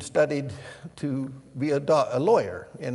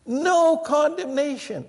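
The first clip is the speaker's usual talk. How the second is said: NO drawn out slow and high; "No condemnation" said slow, high and loud, hammering "No"; repeated for emphasis; 13 semitones higher, 6 dB louder, slower than usual. Shown as a demonstration. Preacher repeating the verse to the church, slow and high.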